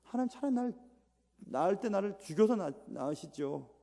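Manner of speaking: mock-anguished outcry; Job crying out. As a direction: cry out to God like Job. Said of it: "욥은 외치고 있습니다".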